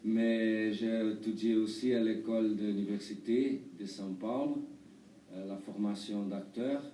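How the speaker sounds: halting Brazilian-accented French; foreign accent in french. Real, not acted. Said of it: "Pardon, mon français, euh, n'est pas très bien".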